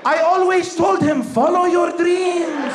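hammed-up boastful father; proud mock boast. Dad bragging about his comedian son, proud mock boast.

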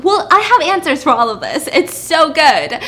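gleeful laugh through the words; giggling with delight at the twist; laughing excitedly. Real, not acted.

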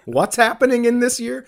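high, loud confused what, waking from a coma; bewildered shout; dazed confusion. Retold or imitated. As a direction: act like you just woke from a coma. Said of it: "It's like you come out of a coma and you're like".

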